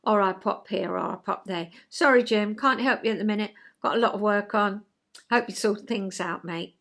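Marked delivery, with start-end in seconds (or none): 1.9-6.8 calm adult brush-off. Shown as a demonstration. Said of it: "Can you hear the difference?".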